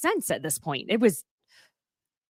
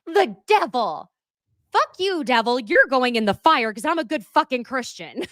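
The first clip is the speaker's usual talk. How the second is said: mock zealous Christian; 4 semitones higher than usual. Mocking Alexis's zealotry.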